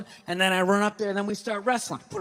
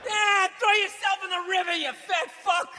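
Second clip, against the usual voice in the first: mock yell at TV; 8 semitones higher than usual. Yelling at TV show.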